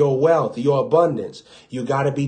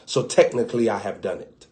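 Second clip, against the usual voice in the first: Jesus, quiet; 5 semitones lower, 6 dB quieter than usual. Retold or imitated. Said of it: "But he said".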